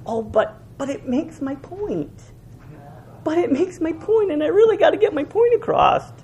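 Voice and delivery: a hint of petulant justification; mock excuse. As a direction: lightly play a defensive poster. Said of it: "I've seen people".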